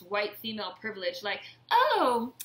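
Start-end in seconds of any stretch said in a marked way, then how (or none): 1.7-2.3 high, loud whiny mock voice; mocking Karen. Mocking the entitled reporter Karen, high and whiny. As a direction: sneer it out as a spoiled woman.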